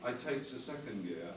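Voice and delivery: mock foreign driver's halting English, slow at first; lightly voiced driver on the soundtrack; imitating a racing driver. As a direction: read it like a badly dubbed race driver. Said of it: "the soundtrack went something like this".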